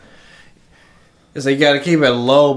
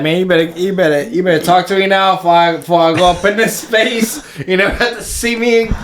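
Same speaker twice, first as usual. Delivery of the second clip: high, fast cocky boast; mock bragging; 6 semitones higher than usual. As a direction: strut like a man headed to space. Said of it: "I'm gonna be like".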